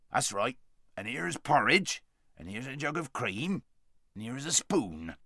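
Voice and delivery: put-on a gruff helper noticing the faint boy; kindly dwarf. Dwarf voiced in story.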